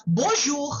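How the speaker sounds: Bonjour, clear French model for students to repeat. Shown as a demonstration. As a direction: say Bonjour slowly so the class can copy it. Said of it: "Paul to repeat after me".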